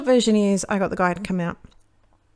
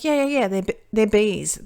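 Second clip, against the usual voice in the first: insistent tradie; 2 semitones higher, 5 dB louder than usual. Retold or imitated. Imitating insistent young tradie.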